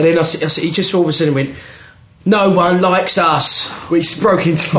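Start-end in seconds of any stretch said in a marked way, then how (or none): 2.2-3.7 slow, higher Cockney terrace chant; mock Cockney football chant, stretched out; Cockney accent. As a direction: draw it out in imitated Cockney. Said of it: "like, Cockney accent".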